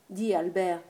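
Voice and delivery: a mild call across the yard. Acted. Wife calls up to her husband in the apple tree, mild call. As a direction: lift the voice to reach Albert up in his tree.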